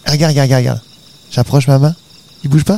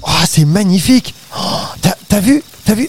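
amazed; 5 semitones higher than usual. Acted. Marvelling at the giant ferns.

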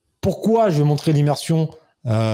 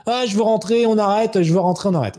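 put-on high whiny kid voice, wanting to go home; mock whiny child; 6 semitones higher than usual. Son crying after falling, whining to go home. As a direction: imitate a crying six-year-old begging to stop.

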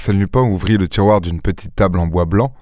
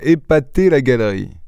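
mock echo. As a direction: throw "épater la galerie" back at him, mildly offended. Lupin echoes Ganimard's phrase, offended. (reprise ironique de « épater la galerie », plus haut)

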